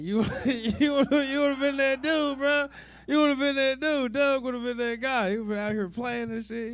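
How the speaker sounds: loud, high, slowed hype for the guitar player; big loud cheer of praise, dragging it out; excited hype. Real, not acted. Hyping up guitar player as Doug.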